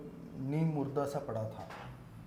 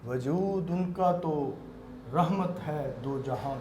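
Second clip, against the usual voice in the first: naat recitation. Acted. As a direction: recite each word with weight. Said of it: "نعت کے چند شعر پیش کرنا چاہوں گا".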